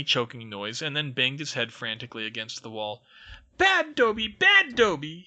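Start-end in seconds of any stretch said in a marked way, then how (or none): 3.6-4.3 very high, loud elf cry of self-punishment; shouted. A narrator's reading. House elf scolds himself, squeaky and loud. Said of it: "he shouted". 4.3-5.3 very high, loud elf cry, rising at the end; shouted. A narrator's reading. House elf scolds himself again, squeaky and loud. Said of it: "he shouted".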